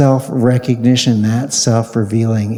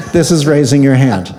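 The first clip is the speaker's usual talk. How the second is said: laughing demo; 2 semitones higher, 3 dB louder, faster than usual. Shown as a demonstration. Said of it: "Don't do this".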